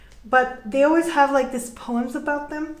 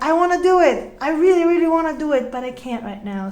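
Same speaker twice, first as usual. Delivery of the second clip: eager pleading; 3 semitones higher, 4 dB louder than usual. Retold or imitated. Partner quoted wanting to come back, eager and louder. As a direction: push it out like you're itching to. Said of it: "that it's like".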